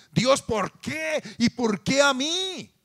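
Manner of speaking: slow, high, loud plaintive wail; accusing cry to God. Retold or imitated. Pastor mimics people blaming God for misfortune. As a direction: whine it like blaming the sky. Mocking complaint against heaven.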